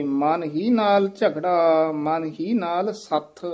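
ਸੱਥ said firmly, tight and clipped at the end, slow line; slow the line and bite down on ਸੱਥ; ਸੱਥ ਕਸ ਕੇ ਉਚਾਰਨ. Shown as a demonstration. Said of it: "ਇਹ ਸੱਥ ਉਚਾਰਨ ਕਰਨਾ ਕਸ ਕੇ".

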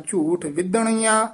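ਝੂਠ ਵਿਧਣੀਆਂ with a firm, tight ਧ; tightened pronunciation. Shown as a demonstration. Teacher correcting the sound, tightened ਵਿਧਣੀਆਂ. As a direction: press into the middle of ਵਿਧਣੀਆਂ. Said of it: "ਥੋੜ੍ਹਾ ਜਿਹਾ ਕੱਸ ਕੇ ਬੋਲਣਾ ਹੈ".

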